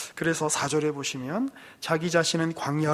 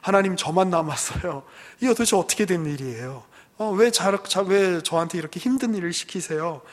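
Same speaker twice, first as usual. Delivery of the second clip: louder, fast complaining whine; mock whining; 5 dB louder than usual. Elijah complaining to God, loud mock whine. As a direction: whine to God like a tired child. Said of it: "엘리야가 또 이제 징징거리죠".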